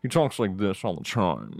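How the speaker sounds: lightly imitated movie killer; Buffalo Bill. Shown as a demonstration. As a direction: slip into a weird killer's voice. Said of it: "it's a really weird voice".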